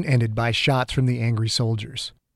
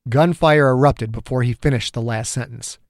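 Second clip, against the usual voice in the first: plain reading voice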